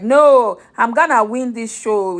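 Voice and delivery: mock Ghanaian accent, defiant; light Ghanaian accent, insisting she will win. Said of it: "in that her Ghanaian accent".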